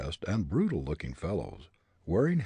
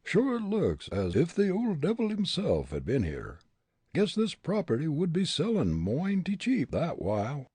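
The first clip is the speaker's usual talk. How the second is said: higher Irish character voice; lilting Irish grumble, pitched up; Irish brogue; 8 semitones higher than usual. A narrator's reading. Irishman's dialect speech in story.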